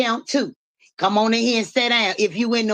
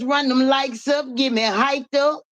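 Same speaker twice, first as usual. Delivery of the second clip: higher-pitched hype voice; lightly put-on persona, pitched up to rally the crowd; Stan G; 4 semitones higher than usual. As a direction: rev them up in a raised voice. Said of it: "And Stan G voice".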